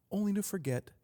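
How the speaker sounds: high-pitched first statement. Real, not acted. Repeats the phrase, then softer.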